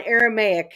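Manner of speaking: "Aramaic" said as "air-a-may-ik"; corrected pronunciation. Real, not acted. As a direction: repeat "Aramaic" carefully with its "may-ik" ending. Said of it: "There you go".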